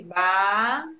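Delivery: BACAXI in slow, separated syllables; teacher sounding out Bacaxi piece by piece. Shown as a demonstration. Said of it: "quantas sílabas tem".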